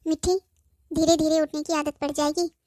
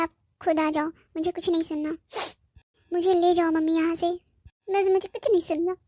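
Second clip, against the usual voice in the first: crying. Acted. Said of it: "तू रोना बंद कर".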